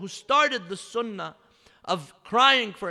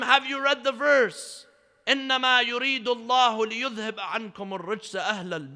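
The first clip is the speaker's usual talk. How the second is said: raised, loud preacher's recital; forceful challenge; 5 semitones higher, 6 dB louder, faster than usual. Retold or imitated. Imam challenging a doubting man with scripture, forcefully retold. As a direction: press the question loudly, then recite the verse.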